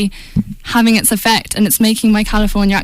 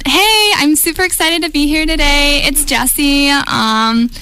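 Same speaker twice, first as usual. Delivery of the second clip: put-on American accent; 4 semitones higher than usual. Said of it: "give us your best American accent".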